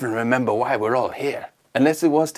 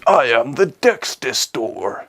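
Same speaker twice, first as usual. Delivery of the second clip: dinosaur voice; slower than usual. Acted. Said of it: "sounds like a dinosaur".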